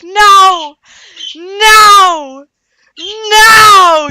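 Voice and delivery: long, high screams of refusal; acted scream of someone dragged away. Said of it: "she's screaming".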